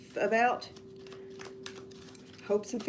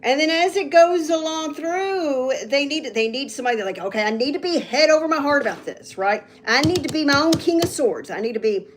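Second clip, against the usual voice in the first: getting excited; 4 semitones higher, 4 dB louder than usual. Real, not acted. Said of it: "I'm getting excited".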